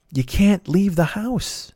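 slow firm warning. Retold or imitated. Repeating the warning to mom.

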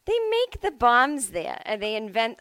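lightly voiced mom, calm and factual; matter-of-fact mom. Retelling mom's car-ride warning, mild mock matter-of-fact. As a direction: state the danger like it's trivia. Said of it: "she said it very matter-of-factly".

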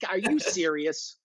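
high, slow Chicago mom protesting; mom impression. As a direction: play your mom denying it, high and drawn out. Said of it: "And she always like".

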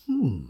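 musing hum, lifted in pitch; thoughtful hmm. Shown as a demonstration. Voice actor demonstrates his obsession noise, pondering hmm. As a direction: hum it like an idea forming. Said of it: "it is this kind of".

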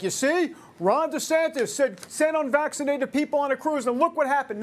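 hammed-up gotcha voice; gloating Twitter critic. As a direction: Twitter users mocking the governor, in a mock-smug voice. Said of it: "everybody's like".

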